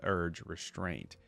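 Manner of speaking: steady storybook reading voice; story narration. Acted. Reading Akali's lore to viewers in a story narration voice. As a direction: read the lore like an audiobook narrator.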